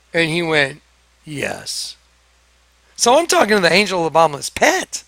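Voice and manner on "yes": very low, soft, grim yes; a sinister, hushed admission; low entity yes. Retold or imitated. Alex answering, voiced as entity.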